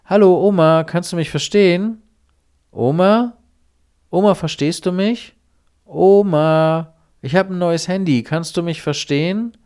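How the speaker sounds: high, loud, eager grandson calling grandma; scam caller. Retold or imitated. Scammer calling grandma on a new phone, high and loud. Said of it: "und sagt sowas wie".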